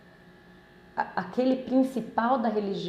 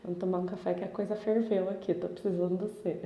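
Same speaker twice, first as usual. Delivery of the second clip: casual chat with God; 2 semitones lower, 4 dB quieter, faster than usual. Retold or imitated. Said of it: "É assim que eu falo com ele".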